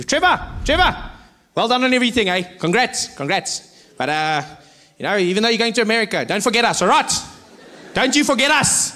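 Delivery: lightly voiced over-familiar well-wisher; imitated fan. Imitating fans shouting weird send-offs.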